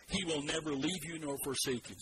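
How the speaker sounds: steady unison recitation, the preacher setting the pace; leading the congregation. Shown as a demonstration. Pastor leads church in reciting the verse, measured. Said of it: "let me say it, and then you say it with, with me".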